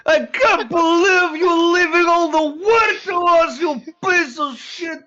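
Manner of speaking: in-character angry yelling at a friend; a touch of a rough scolding shout. Acted. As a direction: yell at him as he's led away, outraged.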